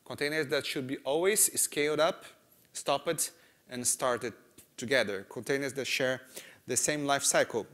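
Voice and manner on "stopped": usual speaking voice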